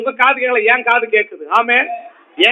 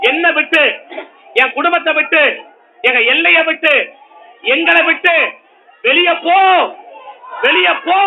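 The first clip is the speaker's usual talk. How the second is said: raised, ringing rebuke with shouted peaks; preaching at full force; 2 semitones higher than usual. Acted. Preacher commanding the problem to leave the house, full force. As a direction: command it out, building with each line.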